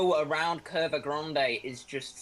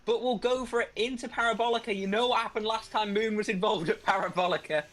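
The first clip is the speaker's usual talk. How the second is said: raised, animated race commentary; excited play-by-play; 4 semitones higher than usual. Real, not acted. Commentator following Moon after the crash, excited play-by-play. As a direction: keep the pitch up as the incident unfolds.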